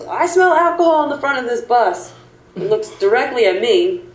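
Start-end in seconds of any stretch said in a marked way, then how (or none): 0.1-2.1 high-pitched imitation of a yelling trooper; mock scream. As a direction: imitate an officer's outcry without much volume. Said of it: "And he screams".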